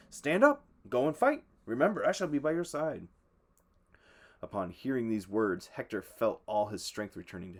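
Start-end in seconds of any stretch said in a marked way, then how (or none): 0.1-3.1 commanding. A narrator's reading. God commands Hector.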